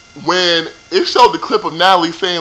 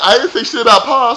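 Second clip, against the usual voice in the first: mocking Amber; 6 semitones higher, 4 dB louder than usual. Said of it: "Amber was like".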